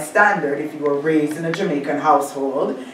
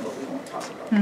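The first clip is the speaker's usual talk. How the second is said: softly laughed, fast and hushed; a giggly hushed aside; playful laughing throwaway; 4 semitones higher, 7 dB quieter, faster than usual. Real, not acted. Laughing aside about Toronto.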